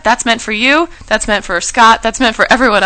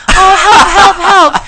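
high, loud damsel-in-distress cries; fluttering cries for help; 11 semitones higher, 7 dB louder, much slower than usual. Pretend. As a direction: play the helpless damsel on the roadside. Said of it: "hike up my skirt ... be like".

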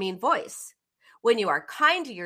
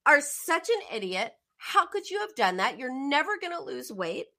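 higher, mock-harsh self-scolding; Ellen's harsh self-talk; 6 semitones higher than usual. Ellen berating herself after the party, higher and harsh. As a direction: scold yourself like a fed-up critic. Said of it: "this is Ellen talking".

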